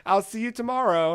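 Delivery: put-on breezy girlish brush-off; little girl. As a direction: imitate a child cheerfully dismissing someone. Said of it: "And she's like".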